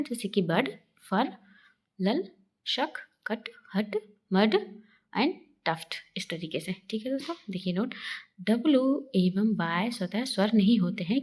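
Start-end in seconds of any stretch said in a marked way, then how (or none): 0.4-5.9 बड, फर, लल with a short 'uh'; short 'uh' demo. Shown as a demonstration. Teacher showing U said as आ, short 'uh' in बड and कट. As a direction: separate words, short 'uh' in शक, कट, हट. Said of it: "यू से आ का उच्चारण होता है".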